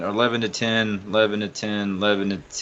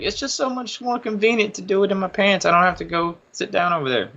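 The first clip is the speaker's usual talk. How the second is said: put-on higher-pitched little kid making excuses; toddler daughter; 8 semitones higher than usual. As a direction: explain it like a small child, voice raised. Voices his toddler daughter's excuse.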